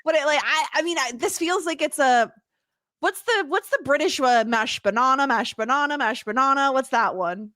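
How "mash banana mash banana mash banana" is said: quick chanted Australian "banana"; repeating the Australian "banana" in a lilt; imitating Wiggles accent. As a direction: chant "banana" the Aussie way, broad "nah". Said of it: "the way they say it".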